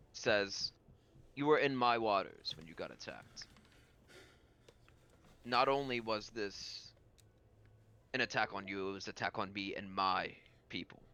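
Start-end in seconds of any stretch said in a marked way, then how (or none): 1.3-11.0 grave, deliberate statement with weighty pauses; solemn lord character. Acted. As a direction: state the grievance with restrained authority. Game master voices the lord.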